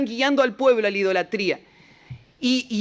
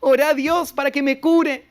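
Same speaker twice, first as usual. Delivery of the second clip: retold king crying out, lightly acted; crying plea; 5 semitones higher than usual. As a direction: beg through mock tears, voice raised. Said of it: "empieza a gritar llorando".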